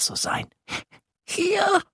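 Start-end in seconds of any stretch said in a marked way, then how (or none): 1.3-1.8 very high tiny peep; squeaky little monster. Acted. Tiny lake monster peeps from the reeds, very high. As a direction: peep it like a frog-sized creature. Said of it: "piepst es".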